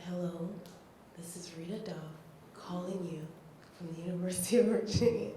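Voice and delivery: mild hushed imitation of the caller; quoting Rita on the phone. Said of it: "and the voice said".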